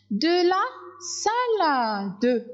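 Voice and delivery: De la salade said high and slow, each syllable clear; slow modelling voice; slow, clear dictation. Shown as a demonstration. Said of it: "first modelled take, higher".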